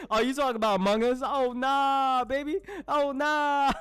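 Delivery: high, loud, fast laughing "oh nah"; laughing disbelief. Real, not acted. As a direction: laugh it off in shock. Laughing reaction to a joke.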